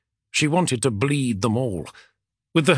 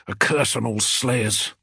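swearing with feeling; 3 semitones lower than usual. Acted. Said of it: "Felix swore with feeling".

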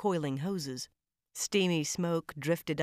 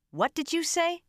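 1 shocked question; 13 semitones higher, 4 dB louder than usual. A narrator's reading. McGovern shocked by handcuffs.

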